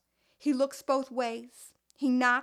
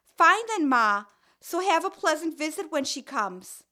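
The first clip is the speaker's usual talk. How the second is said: snippy daughter; 3 semitones higher, 5 dB louder than usual. Acted. Daughter's angry parting shot.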